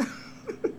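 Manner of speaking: soft laugh after a joke; amused laugh. Real, not acted. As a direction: chuckle at your own outburst. Laughs after own mock shout.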